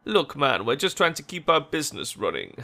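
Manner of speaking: a hint of Jamaican accent; plead, slipping slightly into Jamaican; accidental Jamaican accent. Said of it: "he just suddenly went Jamaican".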